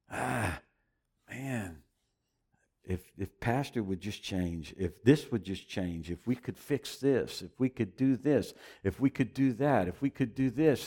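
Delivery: softly voiced doubting churchgoer; quiet inner grumbling. Churchgoer quietly grumbling about the pastor, soft and low. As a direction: murmur the worried wishes under your breath.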